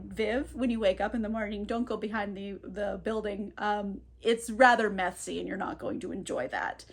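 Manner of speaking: coldly calm warning, held low and quiet. Retold or imitated. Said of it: "very calmly like".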